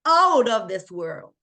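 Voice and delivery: excited. Real, not acted. Hyping top tier.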